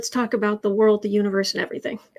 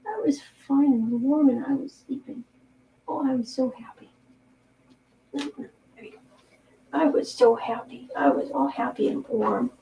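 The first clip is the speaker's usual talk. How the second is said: voicing the cat; 4 dB quieter than usual. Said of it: "He said".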